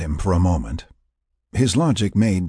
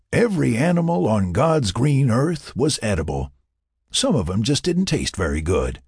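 higher-pitched folksy argument; confident, folksy Mac; 5 semitones higher than usual. Acted. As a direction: make your homespun case with confidence. Mac argues his case.

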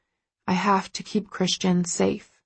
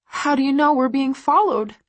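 squeaky whisper; 6 semitones higher than usual. A narrator's reading. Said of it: "My voice is a breathy, squeaky whisper".

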